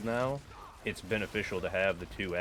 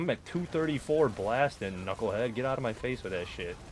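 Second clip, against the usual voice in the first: indignant; 3 semitones higher, 3 dB louder than usual. Real, not acted. Angry at random messager.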